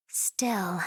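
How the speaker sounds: a brief breathy whisper to herself. Acted. Musing about Vanitas to herself, in a whisper. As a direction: drop to a whisper, thinking it over.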